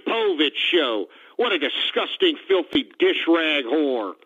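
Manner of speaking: lightly voiced outraged shock-jock host; a hint of a disgusted talk radio host venting; ranting radio host. Radio host ranting to listeners about a clip, mildly outraged.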